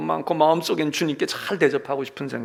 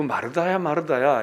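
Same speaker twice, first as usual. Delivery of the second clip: louder call; 5 dB louder than usual. Acted. Jesus calling Martha, a bit louder. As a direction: call her name out clearly. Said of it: "이렇게 부른 이".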